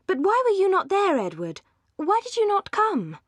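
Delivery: excited reproach at his absence; eager plea. A narrator's reading. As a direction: press him to explain, almost begging. Marianne pleads with Edward.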